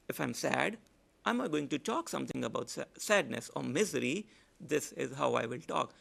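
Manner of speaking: a sad demo voice. Shown as a demonstration. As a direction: let the voice sink with misery.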